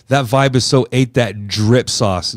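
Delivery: slow, hammed-up "ate that drip sauce"; mock teen slang. Dad butchering slang for his daughter, slow mock teen talk. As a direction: drag out "so ate" like a cringe dad. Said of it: "I'll butcher her slang words on purpose".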